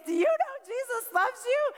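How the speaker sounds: high-pitched, intense imitation; fervent believer. Stranger down in eight-year-old's face, fervently imploring. Woman asks the younger child.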